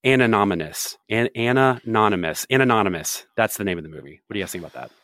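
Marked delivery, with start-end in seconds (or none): 0.1-3.2 drawn-out Anonymous, each syllable of Anonymous laid out slowly; slow title reveal. Shown as a demonstration. Pitching a pun title to friends, Anonymous drawn out slowly. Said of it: "the movie's called".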